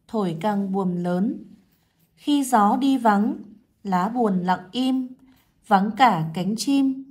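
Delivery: slow, measured poem recital with pauses at each line; model poem reading. Shown as a demonstration. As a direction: read it out slowly for first graders, pausing at every line. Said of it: "cô sẽ đọc mẫu cho các em nghe".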